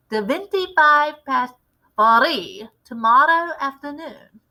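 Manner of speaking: a lightly voiced commanding witch leader; a hint of a grand witch showing off her recipe. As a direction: lecture the coven like their boss. Grand High Witch retells her plan.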